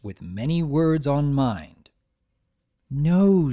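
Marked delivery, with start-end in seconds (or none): 2.9-3.5 stern no. Acted. Twilight sternly answers Spike.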